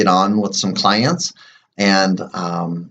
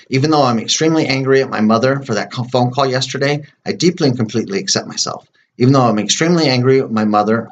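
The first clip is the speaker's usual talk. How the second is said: tapping affirmation recital; 2 semitones higher than usual. Shown as a demonstration. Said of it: "do my setup statement".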